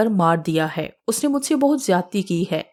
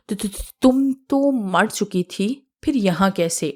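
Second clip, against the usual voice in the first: slow, stuttering in fear; frightened stammer; slower than usual. Acted. Boys stammering in fear at the ghost Asiya, slowed stutter. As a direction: stammer out the words, scared stiff.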